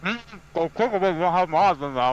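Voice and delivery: talking through a mouthful; words round a bite of sandwich; mouth full. Real, not acted. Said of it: "get the shit out of your mouth".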